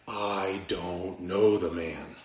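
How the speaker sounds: slow, measured mock oath, pitched low; denial under oath. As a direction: swear it slowly, word by word. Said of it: "this time with an oath".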